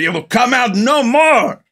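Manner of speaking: high, slow, solemn mystic voice; solemn Egg Shen voice. Retold or imitated. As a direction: intone it like an old sorcerer. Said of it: "He goes".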